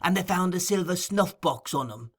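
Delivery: Fagin's voice. Acted. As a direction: purr it like a sly old receiver of stolen goods. Fagin voiced in Oliver Twist.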